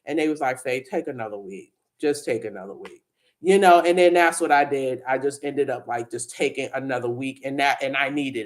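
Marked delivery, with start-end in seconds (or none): 0.6-3.0 soft, low imitated kindness; gentle reassurance. Boss telling grieving employee to take time, gentle. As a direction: quietly give someone permission to rest.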